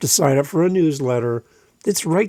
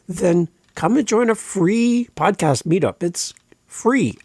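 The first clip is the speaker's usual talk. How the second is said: slow, higher pitch, leaning hard on "free"; stress on free; 5 semitones higher, slower than usual. Real, not acted. Host urging podcasters to a free meetup, stressing "free". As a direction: punch the word "free" to sell it. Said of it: "how much more I can stress the word free".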